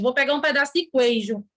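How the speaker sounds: "queijo" said "kwei-jo" inside the sentence; wrong, u sounded. Shown as a demonstration. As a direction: slip a w into "queijo". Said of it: "Ninguém fala queijo".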